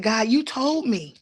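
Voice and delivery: pleading with God. Retold or imitated. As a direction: remind God, voice climbing as you insist. Retelling an anguished plea to God.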